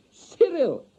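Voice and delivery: high, slow, careful foreign woman; lightly accented young wife; foreign wife's voice. A narrator's reading. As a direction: lift the voice high and go slow like a learner. Wife laughing at him.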